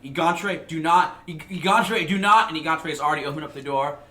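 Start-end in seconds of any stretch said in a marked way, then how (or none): 0.0-2.5 hushed urgent warning. Acted. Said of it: "and Irvin be like".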